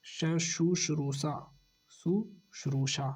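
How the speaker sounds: शुश्रूषा drawn out slowly, each syllable separate; slow careful spelling. Shown as a demonstration. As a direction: sound out शुश्रूषा slowly twice. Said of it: "शुश्रूषा में". (शुश्रूषा धीरे-धीरे, हर अक्षर अलग)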